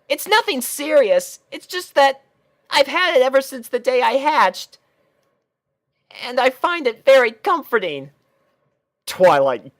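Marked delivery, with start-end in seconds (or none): 0.1-8.1 put-on high, boyish little dragon voice; a small dragon explaining, a bit embarrassed; Spike voice. Spike explains his blanket to Rainbow Dash, high and boyish.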